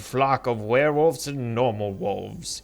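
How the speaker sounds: hushed wildlife narrator voice; nature documentary. Pretend. Mock nature documentary intro.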